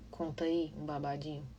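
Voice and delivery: hoarse whisper to save the voice; whisper, sparing a sore throat. Real, not acted. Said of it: "minha garganta". (sussurro rouco)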